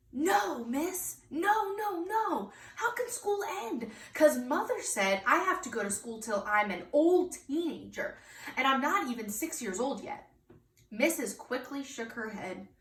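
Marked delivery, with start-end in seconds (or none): 0.1-10.3 put-on high, pleading child's protest; alarmed little girl. Junie B. begs teacher school won't end, high and pleading. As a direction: squeak out the panic like a small kid.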